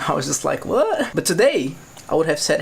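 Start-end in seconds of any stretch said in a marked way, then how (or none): 0.7-1.1 high-pitched incredulous "what"; taken aback. Retold or imitated. Brazilian told that they are lazy, taken aback. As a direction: react in disbelief, pitch leaping up. Retold reaction to being called lazy.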